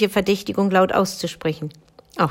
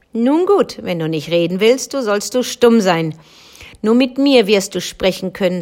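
stern, firm sentence of doom, louder at the start; stern punishment; 4 dB louder than usual. Acted. The black woman punishes the silent girl with a stern curse. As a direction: pass judgment coldly and firmly.

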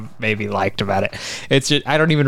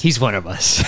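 laughing shout. Retold or imitated. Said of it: "And I'm like".

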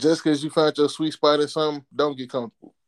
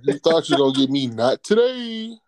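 taunting; 5 dB louder than usual. Acted. Taunting an imagined creditor.

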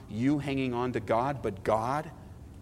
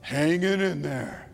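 weary Christian; slower than usual. Retold or imitated. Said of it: "You'll ask them".

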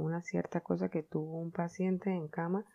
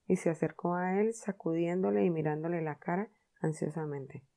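plain reading voice

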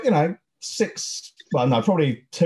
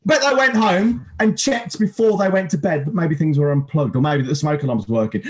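angry rant. Acted. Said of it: "the one minute hate".

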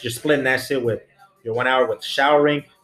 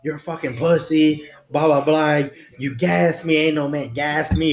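mock scream; 3 semitones higher than usual. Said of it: "he's, like, screaming".

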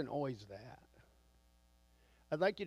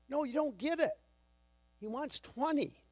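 exasperated insisting; 11 semitones higher than usual. Retold or imitated. Flustered new salesman insists to boss.

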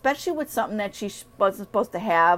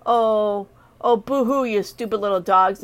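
mocking dog voice; 3 dB louder than usual. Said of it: "I think that was more like".

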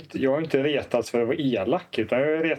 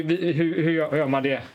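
ordinary delivery

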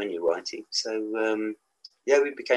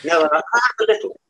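playful mock defiance; 11 semitones higher, 6 dB louder than usual. Joking defence of his accent.

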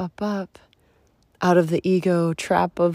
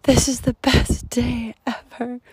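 put-on higher, louder echo of the girl's cheer; brighter repeat; 6 semitones higher, 5 dB louder than usual. Retelling the little girl on the trail, higher and louder. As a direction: say it out with delight. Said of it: "all I heard was".

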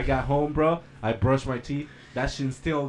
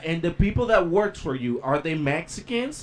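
imitated lady customer; 6 semitones higher than usual. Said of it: "She was like".

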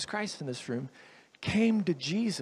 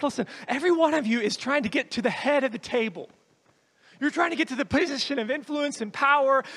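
fast, raised preaching voice; forceful preaching; 4 semitones higher, 4 dB louder than usual. Acted. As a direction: press each point on the congregation, briskly.

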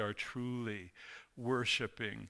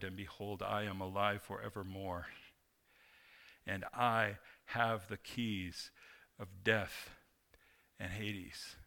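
hushed reassurance; 3 semitones lower, 4 dB quieter than usual. Acted. Preacher voicing Christ comforting the fallen John, hushed. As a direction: speak it low, like a hand on the shoulder.

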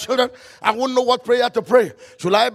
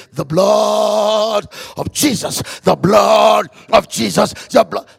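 shout; 2 semitones lower, 5 dB louder, slower than usual. Shown as a demonstration. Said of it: "all you need to do is just say".

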